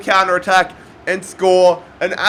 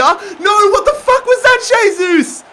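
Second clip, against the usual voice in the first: frustrated outburst; 12 semitones higher, 4 dB louder than usual. Real, not acted. Missed chance, frustrated outburst.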